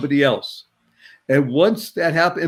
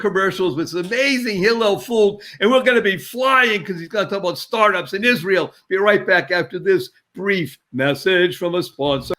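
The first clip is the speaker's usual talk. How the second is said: usual speaking voice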